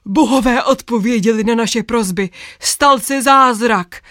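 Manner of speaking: lightly voiced ecstatic knight; mild shouting. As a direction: knight crying out that the gods answered. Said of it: "rozkřičel se".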